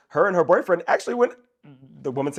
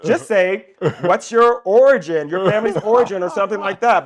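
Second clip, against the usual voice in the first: loud exasperated inner rant; 3 semitones higher, 6 dB louder than usual. Retold or imitated. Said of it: "I'm thinking to myself".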